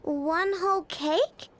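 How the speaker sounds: sheepish flustered excuse; nervous stammer. Acted. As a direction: caught red-handed fumbling. Caught breaking snack schedule.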